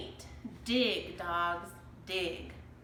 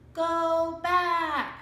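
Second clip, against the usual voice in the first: louder, higher parrot squawk; 8 semitones higher, 8 dB louder than usual. A narrator's reading. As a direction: squawk it urgently. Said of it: "squawked Polly".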